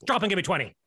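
low, stern sergeant voice; drill sergeant. Acted. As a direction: order the recruit like a sergeant. Army man orders new recruit.

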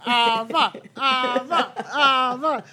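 high, loud chant of her name; excited cheering. Acted.

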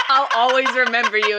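lightly teasing imitation of last words; mock dying farewell. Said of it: "sound like I was dying".

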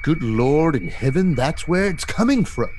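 mildly dramatic adventurer's alarm; startled Jorah. Acted. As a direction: exclaim it, rising high at the end. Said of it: "And Jorah's like".

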